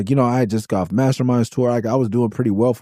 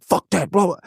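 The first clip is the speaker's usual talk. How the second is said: imitating a bandmate's yell, pitched up, dismissive; mock yell; 7 semitones higher than usual. Retelling a bandmate yelling about per diem, mock yell. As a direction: fling it back like a ranting bandmate. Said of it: "he's yelling".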